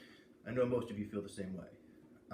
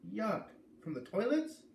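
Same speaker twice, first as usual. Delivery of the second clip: put-on much higher kid-sister voice, grossed out; voiced as a squeamish little sister; disgusted little sister; 12 semitones higher, 5 dB louder, slower than usual. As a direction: recoil like a grossed-out little girl.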